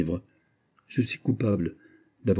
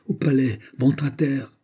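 raised, urgent command; shouted order; 6 semitones higher than usual. A narrator's reading. Pélisson orders the coachman off, calling out. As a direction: call it out, higher in pitch. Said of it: "cria Pélisson au cocher".

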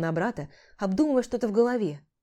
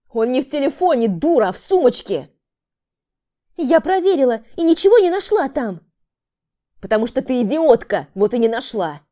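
louder, insulting yell; furious shouting; 5 semitones higher, 8 dB louder than usual. A narrator's reading. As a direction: scream abuse at her. Quarrel, man insults woman. (яростный крик)

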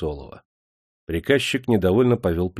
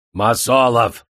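зов; 4 dB louder, slower than usual. A narrator's reading. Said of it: "позвал заводчик приказчика".

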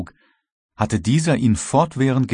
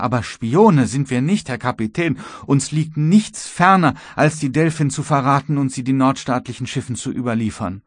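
put-on higher, urgent young apprentice; agitated pleading; 5 semitones higher than usual. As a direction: plead earnestly to save a friend. Aufgeregter Lehrling fleht für den Matrosen. (aufgeregtes, hohes Flehen)

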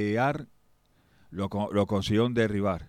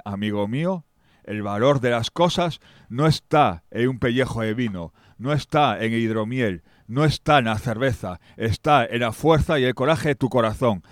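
rousing speech; 7 dB louder than usual. Acted. Rousing speech about courage.

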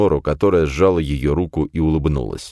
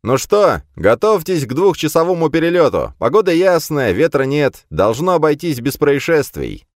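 over a pilot headset; 11 semitones higher, 3 dB louder than usual. A narrator's reading. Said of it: "В наушниках Слоан прозвучал голос пилота".

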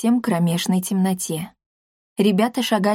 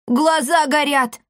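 high, slow panicked shout; frightened cry; 7 semitones higher, slower than usual. A narrator's reading. Boy pointing at glowing eyes, crying out in fear. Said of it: "крикнул толстячок".

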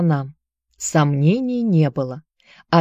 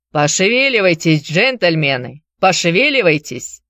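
loud sailor yelling. Acted. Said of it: "горластый матрос".

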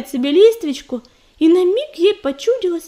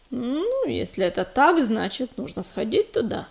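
calm reply; 2 semitones lower, 4 dB quieter than usual. Acted. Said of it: "спокойно ответил он".

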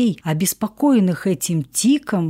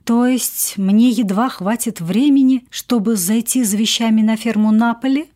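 naive question; 3 semitones higher than usual. Acted. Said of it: "наивно спросила я".

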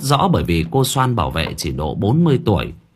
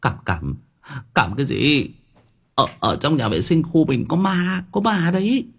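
a stammer that climbs much higher on the ghost part; stuttering out the news, voice leaping up in fright; stammering in fear; 6 semitones higher than usual. Acted. Nam Cận telling roommates about the ghost, stammering and frightened. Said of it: "lắp bắp".

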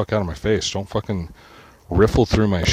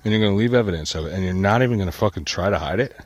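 raised, heated disbelief at the thief; imitated angry confrontation; 2 semitones higher than usual. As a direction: chew him out like he's standing right there. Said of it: "I'm like".

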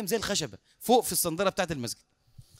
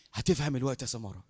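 low, unhurried reassurance; soothing sheikh; 9 semitones lower, 5 dB quieter than usual. Acted. Sheikh telling drowsy Samara to sleep, low and soothing. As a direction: lull him with a low, soft voice.

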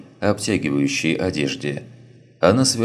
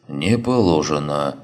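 flat officious bureaucrat. Acted. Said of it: "прогудел Матвей".

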